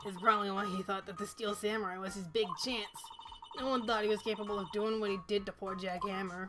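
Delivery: hint of a New York old lady; New York accent. Old guard speculates on Powers's motive, New York accent. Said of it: "stuck in New York accent".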